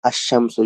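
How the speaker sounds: "আশ-শামসু" with a doubled sh and no l; tashdid on sh. Shown as a demonstration. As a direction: hold the sh in "আশ-শামসু". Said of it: "সেখানে তাসদিদ হবে".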